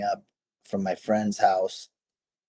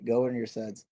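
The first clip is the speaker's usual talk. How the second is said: "Go earn your suds" softer, said to himself; quiet echo of motto; 6 dB quieter than usual. Retold or imitated. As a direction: let the motto settle back down, quietly. Repeating the motto again, softer.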